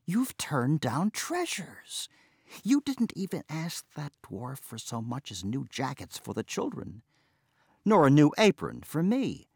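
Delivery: exasperated wife scolding, lightly voiced; mild scolding tirade; scolding outburst. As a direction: berate him in frustration. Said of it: "flung up her hands and burst out".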